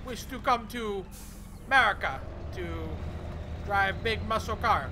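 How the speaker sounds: loud, hammed-up Russian accent. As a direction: play a comic Russian tourist in a Russian accent. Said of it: "That's my foreign accent".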